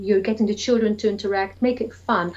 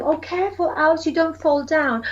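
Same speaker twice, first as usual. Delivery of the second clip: gentle warning; 6 semitones higher than usual. Shown as a demonstration. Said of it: "I normally say to them".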